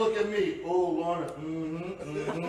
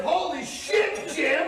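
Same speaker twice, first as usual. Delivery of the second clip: prompted shout; 7 semitones higher, much slower than usual. Shown as a demonstration. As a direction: shout it to cue the crowd. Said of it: "yell out the magic words".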